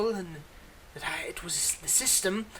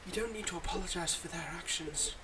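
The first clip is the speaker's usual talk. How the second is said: soft whisper; 6 dB quieter than usual. Acted. Villain consoles new hero.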